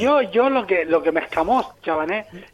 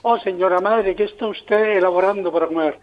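mock-formal Valladolid Spanish; español de Valladolid. Shown as a demonstration. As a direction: ask it in careful, proper Valladolid Castilian. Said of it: "en español de Valladolid". (español de Valladolid, formal y redicho)

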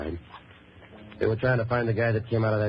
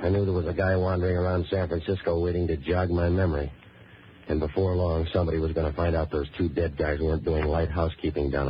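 dry, even storytelling voice; hard-boiled narration; 2 semitones lower than usual. Acted. Hero recounting a rough car ride, hard-boiled narration. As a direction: tell it wearily level, like a private eye.

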